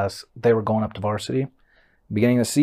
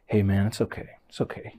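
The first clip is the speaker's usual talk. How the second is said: retold consoling; 6 dB quieter, faster than usual. Coach reassures player embarrassed in front of room, soft consoling. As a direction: console quietly, trailing softer.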